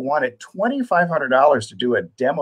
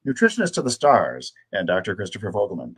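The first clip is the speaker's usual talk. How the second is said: narration voice; 2 semitones higher than usual. Shown as a demonstration. Host opening the Total Health Live broadcast, in a narration voice. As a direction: announce the show like a voiceover artist. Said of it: "That's my narration voice".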